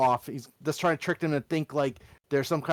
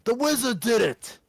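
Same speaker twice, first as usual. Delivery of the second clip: higher exasperated goblin voice; 7 semitones higher, 3 dB louder than usual. Acted. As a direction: scold the goblin for doubting you. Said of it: "mimic the goblin voice".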